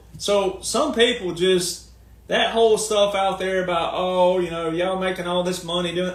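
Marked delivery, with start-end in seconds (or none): none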